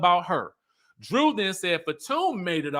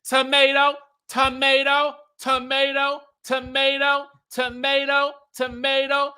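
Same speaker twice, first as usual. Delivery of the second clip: high, loud repeated yelled tomato; mock screaming the word over and over; 7 semitones higher, 3 dB louder than usual. Recapping Sheree screaming at Drew, high loud yells. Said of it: "Sheree starts screaming".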